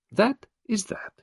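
breathy whisper, high; Poirot settling the matter in a whisper. Acted. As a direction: let it fall to a hush. Poirot closes the question.

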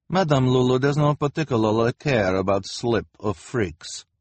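put-on haughty high accented boss. A narrator's reading. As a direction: look down on them, grandly. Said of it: "Lulu said haughtily".

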